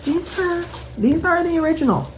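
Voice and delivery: high, proud shop owner; lightly voiced owner showing off; a hint of a proud owner; quoting the owner. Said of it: "She's like".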